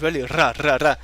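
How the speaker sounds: "ra" with a rolled Scottish R; "ra" repeated to show off the Scottish R. Shown as a demonstration. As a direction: demonstrate the Scottish R on "ra, ra". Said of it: "the R sound is a Scottish accent".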